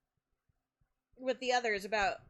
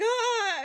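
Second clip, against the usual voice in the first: high, loud "Ah!" of group excitement; imitated excited gasp; 12 semitones higher, 7 dB louder than usual.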